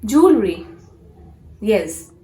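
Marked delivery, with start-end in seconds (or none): 0.0-0.7 "jewelry" as a crisp JOOL-ree; "jewelry" without the middle EL; correct jewelry. Shown as a demonstration. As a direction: model two-syllable JOOL-ree for "jewelry". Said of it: "how you have to pronounce".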